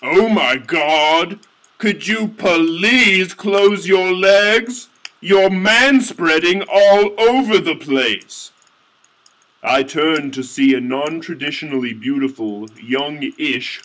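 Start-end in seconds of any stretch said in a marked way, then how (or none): 0.0-8.5 slow, higher, scolding woman; lightly voiced husky scold. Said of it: "most beautiful, husky voice say".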